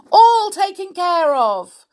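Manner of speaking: high, loud, cheerful reply; triumphant cry. A narrator's reading. Mister Mean reassuring Mister Happy, high triumphant cry. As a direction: announce it with glee. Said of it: "cried Mister Mean".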